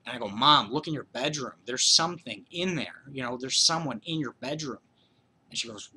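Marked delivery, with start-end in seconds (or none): 0.3-4.8 retold panicked shout, raised and loud; frantic yell to mom. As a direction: plead loudly for mom to check the bedroom. Kid calling mom in terror.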